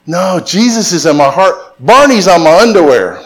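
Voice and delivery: put-on little girl. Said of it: "The little girl says".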